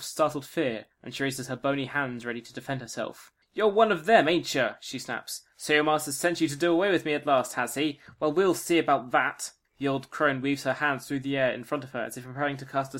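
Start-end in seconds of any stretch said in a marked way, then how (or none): 3.5-4.7 loud, high suspicious crone; old witch voice. Acted. 5.6-9.5 suspicious crone, defiant; a threatening old crone; old witch voice. Acted.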